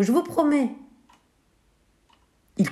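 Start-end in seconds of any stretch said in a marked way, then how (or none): 0.0-0.7 higher, earnest mock plea; pleading cry. Bako pleads with the villagers, earnest. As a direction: beg them to believe you. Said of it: "cria Bako".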